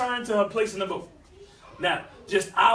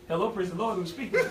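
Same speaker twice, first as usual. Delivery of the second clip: churchy phone greeting; 3 dB quieter than usual. Retold or imitated.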